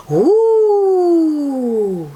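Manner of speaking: high, loud, long amazed ooh; children's delighted ooh; excited ooh. Acted. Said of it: "say the children".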